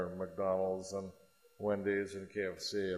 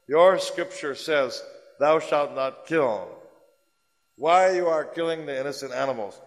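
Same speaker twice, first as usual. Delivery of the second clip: loud, slow, high challenging demand; forceful challenge; 4 semitones higher, 8 dB louder than usual. Retold or imitated. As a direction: hammer each word slowly like a stern teacher. Guru's quote challenging the Christians.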